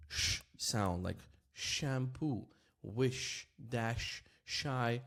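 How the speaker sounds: slow, separated examples with a hushed "sh" in shampoo, wish, dash, shy; sh without vibration. Shown as a demonstration. Teacher showing the throat stays still, voiceless sh. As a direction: let only air through on each "sh". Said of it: "nothing vibrates here".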